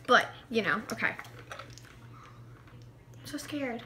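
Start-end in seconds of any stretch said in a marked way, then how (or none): 1.6-3.8 soft, slow, breathy whisper. Real, not acted. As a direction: whisper it slowly, dreading it. Nervous before the sour candy.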